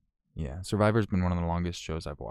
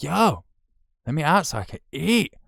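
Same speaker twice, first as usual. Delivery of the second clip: high, loud mock cat plea; voiced hungry cat; 9 semitones higher, 6 dB louder than usual. Owner voicing his locked-in cat, high mock yelling. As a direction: call out as a cat demanding food. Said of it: "he's just like".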